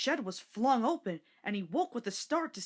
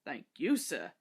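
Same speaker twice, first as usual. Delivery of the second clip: polite; 6 semitones lower than usual. A narrator's reading. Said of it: "said Toby politely".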